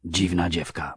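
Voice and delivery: softly muttered remark. A narrator's reading. Boreasz remarking on the strange girl, muttered. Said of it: "mruknął Boreasz".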